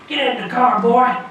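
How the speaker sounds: high, loud commanding call from a car; gruff stranger. Retold or imitated. Man in a car ordering a walker in the cold, loud. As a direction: bark it like a stranger pulling over. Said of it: "that's what exactly how he talked".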